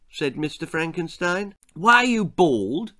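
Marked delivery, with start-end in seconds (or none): 1.8-2.9 put-on high, loud boyish question; blunt boy Jack. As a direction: ask it like a tactless child.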